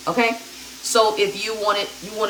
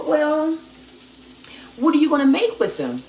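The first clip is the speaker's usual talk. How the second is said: fish for what she plans; teasing question; 7 semitones higher than usual. Retold or imitated. Asking her daughter about the potatoes, higher teasing question.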